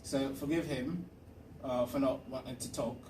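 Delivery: mock-British accent; put-on British accent. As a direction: keep up a silly fake British accent. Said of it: "I gotta get out of this accent".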